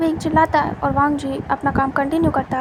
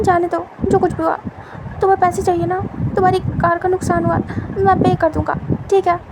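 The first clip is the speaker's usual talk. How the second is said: anxious bargaining; 3 semitones higher than usual. Acted. Wing bargaining with money.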